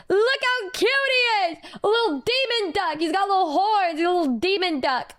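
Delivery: high, cooing voice gushing over something tiny. Real, not acted. Showing off a new duck tattoo, cutesy high cooing.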